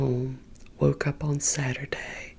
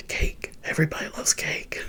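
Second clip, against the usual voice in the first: lightly imitated cartoon sidekick, quickening; Donkey. Retelling a friend's cartoon impression to viewers, lightly imitated. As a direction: toss it out like a chatty cartoon animal, half impression. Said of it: "Donkey from Shrek. He was like".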